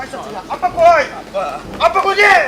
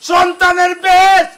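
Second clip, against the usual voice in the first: emphatic shout; 3 dB louder than usual. Acted. Son scolds father, rising.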